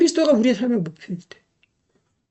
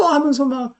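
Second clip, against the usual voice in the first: usual speaking voice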